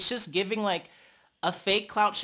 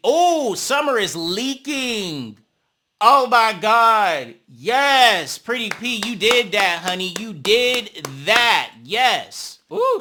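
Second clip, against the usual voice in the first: loud, higher hype for the winner; excited cheering; 4 semitones higher, 8 dB louder, slower than usual. Real, not acted. Viewer cheering Pretty P's hit, loud and high. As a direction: cheer her on like ringside.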